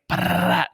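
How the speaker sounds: high rolled rapid drumming noise; imitated woodpecker. Woodpecker pounding on the bedroom wall, rolled imitation. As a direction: trill like a woodpecker hammering. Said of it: "It was just like".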